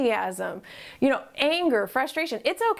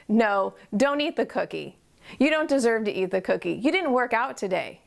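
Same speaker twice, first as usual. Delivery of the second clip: inner critic voice; 2 semitones lower than usual. Retold or imitated. Voicing the nagging head voice that forbids the cookie, mildly stern. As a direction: scold yourself lightly about the cookie. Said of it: "And the voice says".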